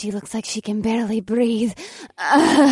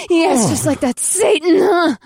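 breathy; 6 semitones higher, 5 dB louder than usual. Acted. Female character in sex scene.

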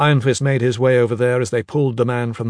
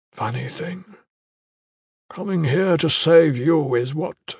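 dying warrior; slower than usual. Acted. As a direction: say goodbye with failing breath. Dying brother's last words.

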